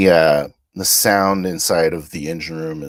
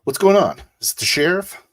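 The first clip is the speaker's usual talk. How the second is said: shouting alarmed; 13 semitones higher, 7 dB louder than usual. Acted. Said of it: "and I say".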